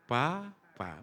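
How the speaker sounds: drawn-out, gentle first word; mother teaching baby. Acted. Mother teaching her child to talk, gentle drawn-out tone. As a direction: coax a baby to copy the word. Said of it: "Nadanya gimana, Bu, waktu ngajari anaknya?".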